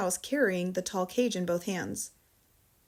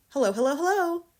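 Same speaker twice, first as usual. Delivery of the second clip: parrot voice; 7 semitones higher, 5 dB louder than usual. Acted.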